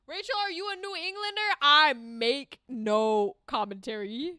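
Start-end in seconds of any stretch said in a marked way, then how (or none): 1.6-4.3 coy dodge. Real, not acted.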